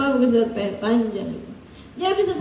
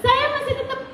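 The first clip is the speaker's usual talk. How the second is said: laughing; 8 semitones higher than usual. Real, not acted. Laughing at husband covering Quran.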